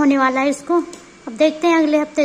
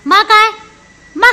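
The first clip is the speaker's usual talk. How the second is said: higher, louder coaxing question; 5 semitones higher, 9 dB louder, faster than usual. Real, not acted. Mother coaxing her baby to say maa, excited.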